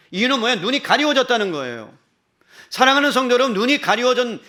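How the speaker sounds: loud, high, ringing pulpit delivery; impassioned preaching. Real, not acted. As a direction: drive the question home, stretching the endings. Preaches at full force. (열정적으로 외치는 설교)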